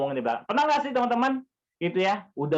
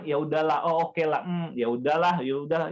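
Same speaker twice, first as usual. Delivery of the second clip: reluctant giving in. Retold or imitated. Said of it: "kita kayak seperti terpaksa".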